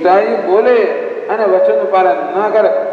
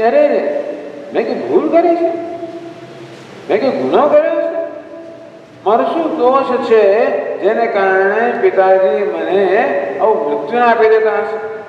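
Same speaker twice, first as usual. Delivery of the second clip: anguished son; 3 semitones higher than usual. Acted. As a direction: ask it like a hurt child who doesn't understand. Son wonders what he did wrong. (દુઃખી મૂંઝાયેલો પુત્ર, ઊંચા સૂરે)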